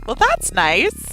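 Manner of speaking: high, slow dry sarcasm; deadpan it, slow and high; sarcastic. Acted. Character reacts to danger.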